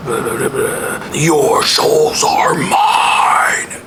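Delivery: hushed eerie villain whisper building to a yell; imitating the Imhotep ride villain; mummy voice. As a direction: whisper like the ride's mummy, then roar. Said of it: "scarabs come out of the wall".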